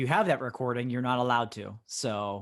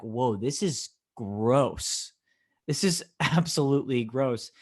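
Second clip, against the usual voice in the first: disgusted; slower than usual. Retold or imitated. Disgusted reaction to video.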